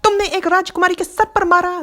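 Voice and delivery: high-pitched outraged princess; indignant shouting. A narrator's reading. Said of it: "राजकुमारी चिल्लाकर कहती है".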